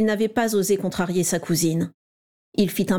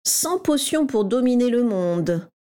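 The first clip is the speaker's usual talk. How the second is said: slow, higher, reading the title out; reading aloud; 4 semitones higher, slower than usual. A narrator's reading. James reading the book title to the crowd, slow and mocking. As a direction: read it out slowly for everyone to hear. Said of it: "lut James à voix haute".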